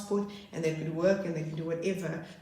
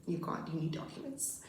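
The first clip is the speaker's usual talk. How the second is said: dismissive staff; 7 dB quieter than usual. Retold or imitated. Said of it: "they were like".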